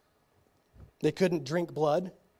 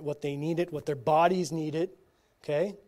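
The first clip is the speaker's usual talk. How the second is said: usual speaking voice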